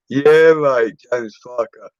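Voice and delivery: high, loud cockney geezer voice; Frank Butcher impression. Drunk on his stream, doing a TV cockney impression. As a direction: do a hammed-up EastEnders market trader. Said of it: "Proper Frank, Frank Butcher".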